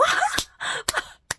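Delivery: put-on shrieking high cackle of drunk women; loud drunken laugh. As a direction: burst out in a wild drunken laugh. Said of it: "막 이런 소리가 들리기 시작해요". (술 취한 요란한 웃음소리)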